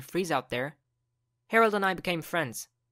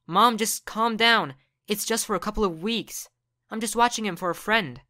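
put-on pleading teen; 4 semitones higher, 4 dB louder than usual. Son pleads with angry mom.

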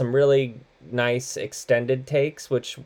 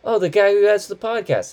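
raised, lilting Gen Z mimicry; Gen Z youngster; 10 semitones higher, 4 dB louder than usual. Host mimicking Gen Z recognising an actor, mock-naive. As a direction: imitate a clueless Gen Z kid. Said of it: "Generation Z would be like".

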